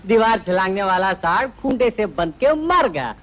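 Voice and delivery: teasing, breaking into a laugh; mocking laughter. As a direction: tease him and laugh at his downfall. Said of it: "तुम हंस रहे हो?".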